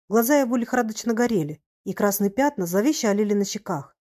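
ordinary delivery

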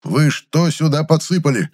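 slow accusation. Acted. Furious chemist.

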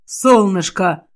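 slow, tender calling out; calling gently to a loved one. Acted. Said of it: "позвал Кассиан".

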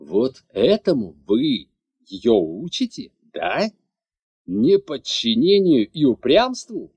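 loud accusing questions; blaming the teacher; angry lord. A narrator's reading. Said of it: "со злостью взглянув на учительницу".

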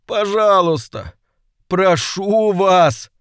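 high, slow pleading demon; high imploring whimper; begging imp. A narrator's reading. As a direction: beg wearily, pitched high. Imp begs master.

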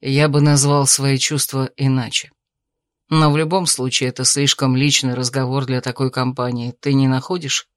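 calm suitor. Acted. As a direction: reason with her gently. Male lead character voice.

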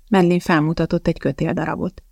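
plain reading voice

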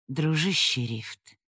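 soft, slow affectionate; tender. Acted. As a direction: say it fondly and quietly. Elda touched by Rift.

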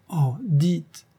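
high, rising 'dites', coaxing; eager plea. Acted. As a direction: gently beg him with a lifted 'dites'. Lover begging him to speak.

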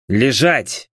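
sharp one-word command; barked order. A narrator's reading. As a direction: order them down to the ground. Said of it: "приказал я".

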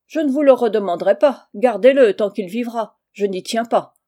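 loud, brusque refusal; emphatic dismissal. Acted. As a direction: wash your hands of it forcefully. Aunt rejects having boy back. (refus sec et énergique)

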